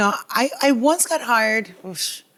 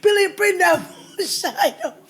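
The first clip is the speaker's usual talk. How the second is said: badly faked accent climbing higher into laughter; desperate ad-libbing; 8 semitones higher than usual. Comedian reliving botched audition, desperate ad-libbing. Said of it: "kept ad-libbing".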